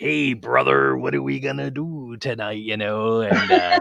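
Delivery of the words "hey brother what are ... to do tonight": gravelly, raised-pitch wrestler voice. Retelling a wrestling story, imitating Macho Man Randy Savage. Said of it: "Randy comes in and he's like".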